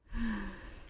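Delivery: long soft sigh out; deep sigh. Acted. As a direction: let out a slow breath. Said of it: "Yaoyorozu took a deep breath".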